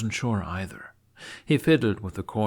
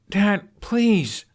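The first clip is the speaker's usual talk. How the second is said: much higher, louder begging cry; desperate plea; 13 semitones higher, 8 dB louder than usual. Acted. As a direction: plead like a little boy. Begging father at door.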